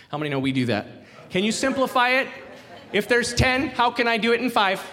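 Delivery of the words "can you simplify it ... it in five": high, pleading haggle over the rules; wheedling bargainer. Retold or imitated. Mimicking congregation bargaining with God.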